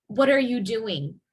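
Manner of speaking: doing stressed at the end. Shown as a demonstration. Teacher modelling focus on doing. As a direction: lean on doing. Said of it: "Doing, again, is the verb".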